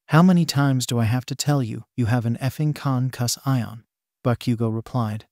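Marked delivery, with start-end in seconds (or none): 0.1-3.8 con cuss ion spelled out syllable by syllable; exasperated roommate stresses con cuss ion at sick Deku; exasperated emphasis. A narrator's reading. Stress each syllable of con cuss ion, fed up. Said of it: "emphasizing the word with as much exasperation as he could".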